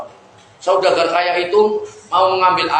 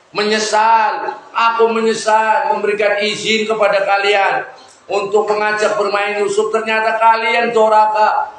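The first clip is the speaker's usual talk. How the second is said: a grieving father's scolding, slightly raised; mildly sorrowful reproach; 4 semitones higher than usual. Acted. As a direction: reproach the sons with regret. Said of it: "Akhirnya ayahnya itu sedih".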